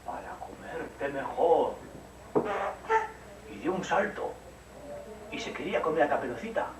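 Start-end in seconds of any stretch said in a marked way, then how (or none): 0.0-1.7 slow menacing wolf. Acted. Wolf springs on Caperucita, slow menace. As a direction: savour each word like a hungry wolf. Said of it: "dijo el lobo".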